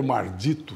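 "mardito" with r in place of l; rustic pronunciation. Shown as a demonstration. Storyteller naming those cursed boleros, country-style "mardito". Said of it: "eu falo mardito".

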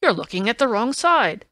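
loud indignant protest; indignant shriek. A narrator's reading. Lestrade correcting Holmes about the note, loud and indignant. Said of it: "he shrieked".

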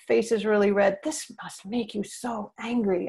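put-on calmly name the child's anger for them; gentle validating. Shown as a demonstration. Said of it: "So I see that your fists are clenched".

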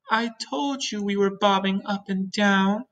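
high-pitched ladybug voice; exasperated ladybug. Acted.

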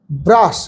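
ব্রাশ with an a vowel; ব্রাশ carefully read out for the class; correct pronunciation. Shown as a demonstration. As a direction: say ব্রাশ slowly, a not u. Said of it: "ব্রুশ না".

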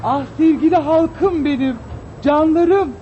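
slow, lofty public greeting; grand diva address. Acted. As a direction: greet your people like a queen.

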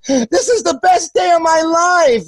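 high, slow gushing shout; imitating an overjoyed kid. Young camper drinking a beer with him, gushing. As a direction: ham up a kid's delight. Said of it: "He goes".

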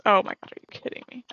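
loud, fast, disbelieving frustration; exasperated outburst. Real, not acted. Streamer yelling at her game after a setback, exasperated. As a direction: blurt it out at the game.

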